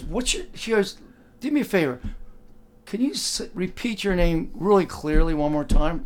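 a gatekeeper who isn't buying it; suspicious doorwoman. Retold or imitated.

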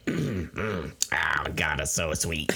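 breathless whisper at the sweetness; whispered disgust. Real, not acted. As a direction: whisper it, overwhelmed by sugar. Sipping the too-sweet soda.

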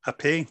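"pay" rhyming with "day", meaning a pie; Dundee pronunciation. Shown as a demonstration. Brother-in-law's Dundee word shown to guest, "pay" with an AY vowel. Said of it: "My brother-in-law's from Dundee".

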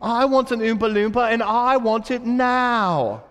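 put-on high, demanding British child's whine, drawn out at the end; British accent. Veruca begging her daddy for an Oompa Loompa, high British accent. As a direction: imitate a spoiled British girl demanding things. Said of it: "I think it was a British accent".

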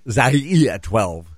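"Zaire" said as zah-EE-uh, then twelve; repeat pronunciation demo. Shown as a demonstration. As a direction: show off "Zaire" with a stressed ee. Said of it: "okay, watch again".

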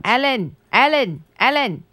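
lightly imitated British voice-over; British accent. Imitating a groundhog video for co-host, lightly British accent. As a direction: repeat the name like a British animal voice-over. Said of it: "kinda like a British accent".

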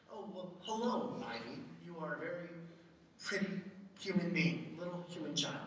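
a polite stranger oddly interviewing an infant; stiff formal adult to a baby. Retold or imitated. Parent mocking how not to greet baby Ivy, stiffly formal. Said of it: "No, you don't talk like that".

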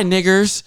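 "niggers" ending on a fully sounded R; hard R. Retold or imitated. Retelling a stranger's Fourth of July greeting, hard R. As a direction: imitate "niggers" with the final R pronounced hard. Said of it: "With the hard E R".

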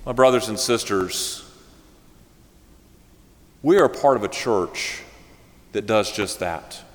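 earnest sermon address to the congregation; preaching. Acted. Preacher urging the congregation after the story, earnest preaching. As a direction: exhort the church warmly.

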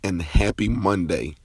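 hoarse, worn-out voice from talking. Real, not acted. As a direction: speak through a tired hoarse throat. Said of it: "excuse my hoarse voice".

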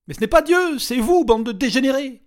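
very high, loud accusing shout; furious shout. A narrator's reading. Regina shouting at her captors, furious. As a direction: spit the insult at them.

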